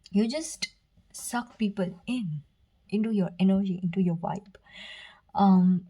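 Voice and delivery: breathless, short of air; out of breath. Real, not acted. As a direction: speak while short of breath. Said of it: "I'm short of breath right now".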